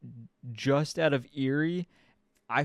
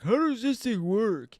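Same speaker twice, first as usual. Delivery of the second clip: high confused; 8 semitones higher than usual. Retold or imitated. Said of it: "He's like".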